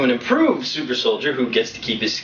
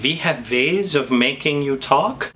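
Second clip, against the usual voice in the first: put-on Hollywood German villain accent; slower than usual. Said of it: "they always talk like this".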